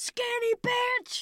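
high, loud, stretched-out yell; a drawn-out shriek of Skinny bitch; retold scream. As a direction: scream it out across the room, high and slow. Acted scream in retold scene.

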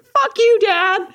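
angry retort. Retold or imitated. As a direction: fire it back at him like a furious teen. Retelling yelling at her dad.

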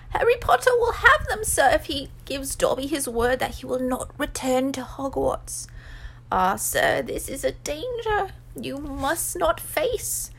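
high elf voice, pleading hard; pleading Dobby. A narrator's reading. House-elf warns Harry off Hogwarts, high and pleading. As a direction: beg and warn as a little elf.

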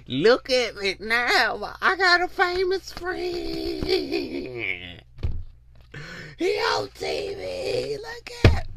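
slow, stretched bragging fake friend; mock show-off friend. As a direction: brag slowly about the famous friend. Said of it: "fake friend showing off".

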